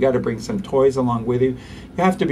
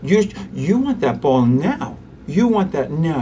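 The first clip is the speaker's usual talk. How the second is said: gentle toddlerese; 3 semitones higher, slower than usual. Shown as a demonstration. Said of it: "I won't mirror that much feeling".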